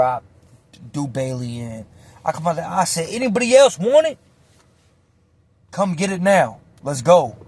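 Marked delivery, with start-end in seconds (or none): 3.1-7.3 challenge. Retold or imitated. Calling out the whole pod.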